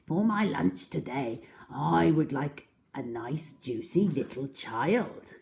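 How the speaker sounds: slow, relishing greedy croc; greedy crocodile. Acted. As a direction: savour each word slowly. Greedy crocodile savours lunch.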